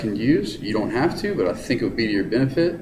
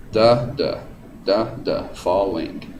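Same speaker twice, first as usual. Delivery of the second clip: strong first beat, falling off; trochaic da-da; much slower than usual. Shown as a demonstration. Teacher drums trochaic rhythm for students, falling.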